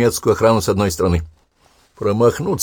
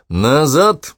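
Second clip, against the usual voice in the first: loud shouted order, rising; 7 semitones higher, 4 dB louder than usual. A narrator's reading. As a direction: yell it to the runners. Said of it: "крикнул он". (громкий крик)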